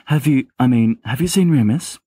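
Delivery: anxious, pressing question; desperate. Acted. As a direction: push the question out in a panic. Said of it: "he says desperately".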